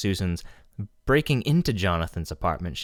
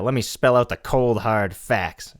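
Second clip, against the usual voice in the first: louder, gruff mock tough guy; tough dummy; 3 semitones higher, 6 dB louder than usual. Dummy lecturing the ventriloquist, mock tough louder. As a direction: spell it out like a hard-nosed puppet. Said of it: "He's like, uh".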